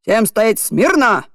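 slow stern command. Acted. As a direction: order the line to attention. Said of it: "скомандовала Адольфовна".

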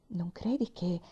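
unvoiced hushed whisper. Mother whispering her fear to father at night. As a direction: breathe it so the children won't hear. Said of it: "chiese mamma sottovoce".

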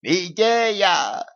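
high, drawn-out tiny cry; excited squeak. A narrator's reading. Tiny knights in a mouse hole, squealing at an idea. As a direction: squeak it out with delight. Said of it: "запищали из норки рыцари".

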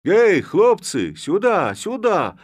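very loud, high call. A narrator's reading. Levko calls the lads over, shouting. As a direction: summon the lads. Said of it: "кричал он".

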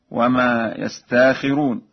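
"يستاخرون" as "yastaakhiroon", long aa; slow "يستاخرون" with "taa" replacing the hamza; Warsh recitation. Shown as a demonstration. Teacher illustrating Warsh's hamza change, "يستاخرون" recited "yastaakhiroon". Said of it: "يبدل الهمز الساكنة".

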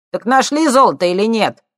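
high loud cheeky lad; cocky punk. A narrator's reading. Thief needling the scientists, loud and cocky.

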